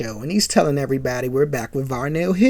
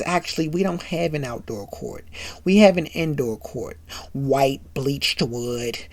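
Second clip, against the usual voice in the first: casual brag; 4 semitones lower, 8 dB quieter than usual. Retold or imitated. Varnell quietly brags.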